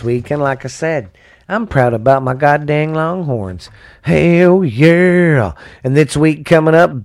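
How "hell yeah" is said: loud, high cheer for his team; hell yeah cheer. Real, not acted. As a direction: shout it out proud. Excited cheer for Longhorns.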